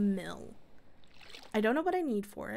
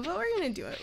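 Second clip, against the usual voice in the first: talking through a yawn; words stretched by a yawn; 7 semitones higher, much faster than usual. Real, not acted. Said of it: "I don't know why I'm yawning".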